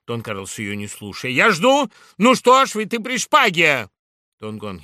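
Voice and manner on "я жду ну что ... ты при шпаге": loud, high taunt; furious challenge. Acted. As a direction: goad him to draw. Carlos provokes.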